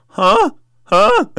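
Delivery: mock startled reply to a gunman; startled huh. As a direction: blurt it out, caught off guard.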